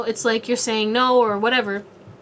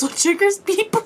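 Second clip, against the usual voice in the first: higher, breaking into laughter; laughing through words; 9 semitones higher than usual. Real, not acted. Reader describing laughing at serious moments cracks up, laughing. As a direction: lose it mid-sentence.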